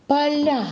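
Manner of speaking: поля punched high on the final я; stress on last syllable. Shown as a demonstration. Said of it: "чтобы на эту гласную ударение падало".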